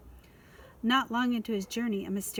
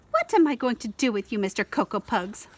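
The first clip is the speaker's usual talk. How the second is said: scolding; 4 dB louder than usual. Acted. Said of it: "she scolded".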